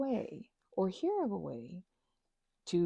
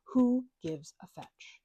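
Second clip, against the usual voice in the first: whisper; 3 dB louder, slower than usual. Real, not acted. Unvoiced aside.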